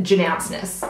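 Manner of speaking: "Janouncness" as juh-NOWNS-ness; family pronunciation. Shown as a demonstration. She shows her Latvian surname, family pronunciation. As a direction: stress the middle NOWNS of "Janouncness". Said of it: "we pronounce it".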